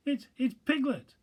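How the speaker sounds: delighted recognition, tripping over the words; cried eagerly. Acted. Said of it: "cried Pooh eagerly".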